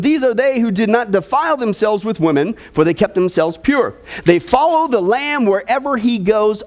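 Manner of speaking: lifted, measured Bible reading to the congregation; scripture reading. Acted. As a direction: read the verses out like a preacher at the pulpit. Reads scripture aloud.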